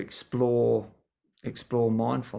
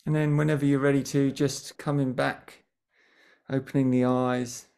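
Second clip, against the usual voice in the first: gentle guiding voice with long pauses between phrases; guided meditation. Real, not acted. Teacher settling a group before a mindfulness session, guided meditation. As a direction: ease listeners into stillness, leaving lots of silence. Leads a short grounding meditation.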